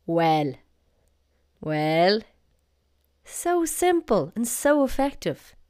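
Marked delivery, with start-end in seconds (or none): 0.0-0.5 "Well" said firmly with a falling tune; emphatic greeting. Shown as a demonstration. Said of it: "And just the emphasis". 1.6-2.2 "Well" drawn up into a rising tune; a firm, rising "Well"; emphatic greeting. Shown as a demonstration. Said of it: "And just the emphasis".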